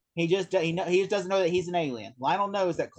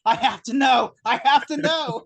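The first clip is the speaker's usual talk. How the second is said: raised, louder mock desperation; insist, acting out the obsession; desperate insistence; 5 semitones higher, 5 dB louder than usual. Doctor staying as everyone leaves the room, desperately insistent.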